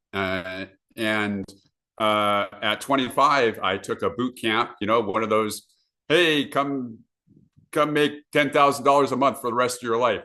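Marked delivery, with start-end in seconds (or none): 6.1-10.2 lightly voiced pitchman, a bit higher; hint of a hard-sell promoter; mock sales pitch. Seminar promoter pitching easy money to a crowd, lightly mocked sales pitch.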